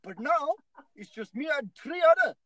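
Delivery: a badly faked Indian accent, rising to a shout; mock Indian accent. Host mimics a factory boss in a faked Indian accent. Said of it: "You sound, you sound Indian".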